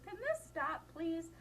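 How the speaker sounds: high, small mock plea; pleading listener. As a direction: voice a trapped listener begging for it to end. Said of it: "The poor person who gets the direct eye contact".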